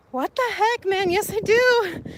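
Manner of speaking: acted-out indignant protest; indignant comeback. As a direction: protest loudly, as if affronted by the accusation. Acted indignant reply to commenter.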